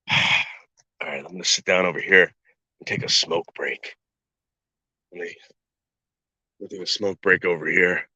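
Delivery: tired and winded, sighing; out of breath. Real, not acted. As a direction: catch breath between phrases. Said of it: "I'm so winded".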